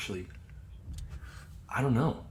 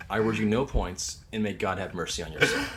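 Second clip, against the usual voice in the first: stern principal quote; 2 semitones lower than usual. Retold or imitated. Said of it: "referenced it".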